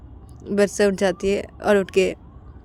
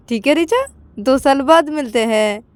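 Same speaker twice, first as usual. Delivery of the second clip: higher, curt phone goodbye; character voice; 6 semitones higher, 4 dB louder than usual. Acted. Friend ending a call on Richa. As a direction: drop the call line coldly.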